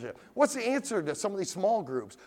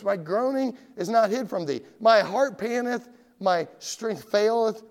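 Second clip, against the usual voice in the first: David crying out; 4 semitones higher, 5 dB louder than usual. Acted. Preacher voices David's groaning to God, crying out. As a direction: cry out the psalm, slowing as strength fails. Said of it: "David cried out".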